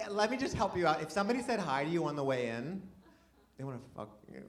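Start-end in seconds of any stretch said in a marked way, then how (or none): 3.6-4.4 very soft, low punchline; confidential aside. Pretend. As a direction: drop it quietly, like a secret tip. Confiding punchline after helpful setup.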